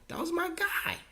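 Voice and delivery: real tears catching every word; crying. Real, not acted. Mourning his father, words breaking into sobs.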